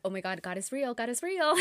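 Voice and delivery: rising from hushed awe into a bright burst; suddenly realizing God is real, breaking into excitement; freaking out. Retold or imitated. A sign on her watch after praying, so she freaks out in excitement. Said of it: "freaking out".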